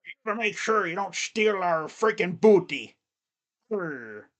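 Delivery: lightly voiced pirate; horrible pirate. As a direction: do a half-baked pirate voice. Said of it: "My horrible pirate voice".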